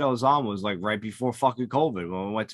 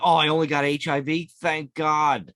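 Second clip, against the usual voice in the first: mock relieved; 2 semitones higher, 4 dB louder than usual. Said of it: "I'm like".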